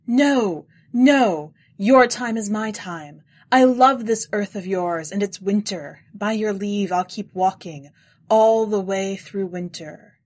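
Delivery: loud, slow pleading. A narrator's reading. Narrator on his knees begs the stranger, loud and slow. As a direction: beg him on your knees, loud and slow. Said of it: "I got on my knees to beg forgiveness".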